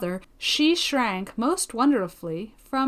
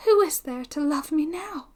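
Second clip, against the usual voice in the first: put-on higher voice of a lonely girl; a touch of lament in a raised girlish voice; forlorn heroine; 5 semitones higher than usual. Young woman asks who loves her now, mildly forlorn.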